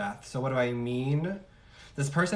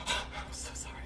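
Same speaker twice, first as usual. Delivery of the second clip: breathless, whispered through laughter; laughing apology; 7 dB quieter than usual. Real, not acted. Reader apologizing for her own impression, helplessly laughing. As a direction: squeeze out a voiceless apology while cracking up.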